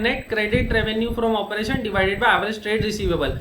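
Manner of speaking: very slow, each word spaced for notes; teacher reading a formula for copying; slow formula dictation. Shown as a demonstration. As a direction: dictate the formula slowly to students. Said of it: "तो ये formula है".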